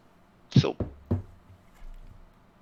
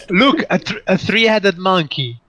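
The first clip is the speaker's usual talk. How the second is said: mock distraction; 5 semitones higher, 4 dB louder than usual. Second joke distraction after laughing.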